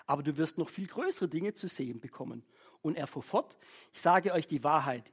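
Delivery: ruhig vorgelesene Bibelstelle, Figuren nur angedeutet; Bibellesung. Acted. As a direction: lies die Geschichte schlicht vor. Reads Bible passage aloud. (schlichte Lesung aus der Bibel)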